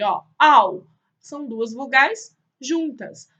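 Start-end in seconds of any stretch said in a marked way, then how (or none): 0.4-0.9 loud spoken dog woof; a punchy mock bark, louder; imitated dog bark. Teacher repeating the dog's little sound, mock bark. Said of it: "Olha lá o sonzinho dele".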